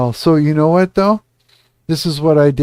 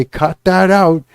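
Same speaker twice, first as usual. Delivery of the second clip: scolding an adult; 3 semitones higher than usual. Retold or imitated. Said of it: "wag your finger and scold the child".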